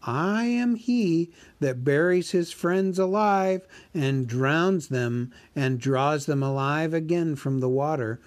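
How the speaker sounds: a small hobbit flattering the dragon; Bilbo the hobbit. Acted. Narrator voices Bilbo.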